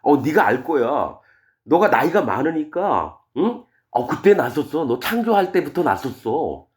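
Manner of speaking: mock agreement, teasingly drawn out; sarcastic. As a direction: needle him by pretending he knows it all. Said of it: "하나님이 지금 욥을 비꼬는 거예요".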